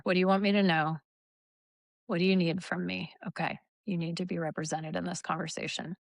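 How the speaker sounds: soft, slowing inner voice; quiet reassuring self-talk, fading down; calm self-talk. Shown as a demonstration. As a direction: gently welcome the angry part. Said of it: "I'm real quick when I notice".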